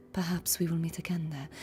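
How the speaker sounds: soft, gentle echo of a measured cadence; Hiyuki. Shown as a demonstration. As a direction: repeat it quietly, floating gently. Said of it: "She has a beautiful cadence".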